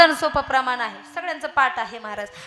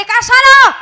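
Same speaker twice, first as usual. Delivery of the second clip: wife's question; 10 semitones higher, 13 dB louder, much slower than usual. Acted. Wife answers in story.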